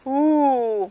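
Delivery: a low ooh held down. Shown as a demonstration. Teacher showing kids their low voice, low ooh. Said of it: "we use our low voices".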